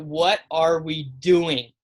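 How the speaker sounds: very slow, spaced-out exasperated catchphrase; Taylor Twellman. Retold or imitated. Co-host feeding Robert his catchphrase, mock exasperated. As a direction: draw out each word in mock exasperation. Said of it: "do your Taylor Twellman impersonation".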